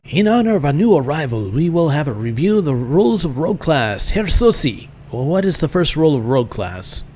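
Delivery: put-on German-accented master addressing the class; German schoolmaster. Master reviewing rules for a new arrival, in a German accent.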